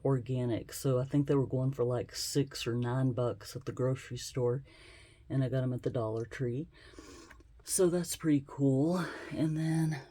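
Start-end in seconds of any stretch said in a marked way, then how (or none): 5.3-10.0 breathing hard while talking; a bit out of breath; heavy breathing. Real, not acted. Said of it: "sorry, I'm breathing heavy".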